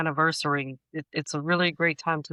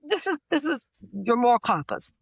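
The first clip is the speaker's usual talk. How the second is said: mock preachy lecturer; 6 semitones higher than usual.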